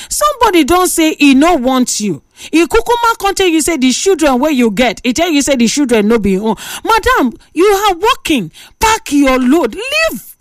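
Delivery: rising, incredulous radio-host rant; fired-up Pidgin host lecturing a caller; exasperated rant. Real, not acted. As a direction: plead with her to leave, voice climbing. Host rants at caller's situation.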